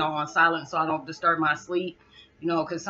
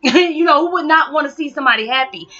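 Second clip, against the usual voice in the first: laughing outburst; 8 semitones higher, 10 dB louder than usual. Real, not acted. Laughing at people who begrudge happiness.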